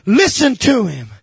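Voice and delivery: slow, high proclamation from heaven; God's voice proclaimed by a preacher; crying out. Acted. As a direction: ring it out slowly, each word stretched. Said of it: "a voice cries out".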